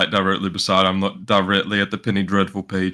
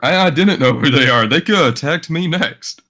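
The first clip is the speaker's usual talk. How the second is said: defensive protest; 4 semitones higher than usual. Acted. Protesting accusation to the commander.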